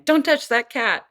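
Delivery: put-on mother warning her baby off the cat, stern. Shown as a demonstration. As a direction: warn the baby off sharply. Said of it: "if she's saying".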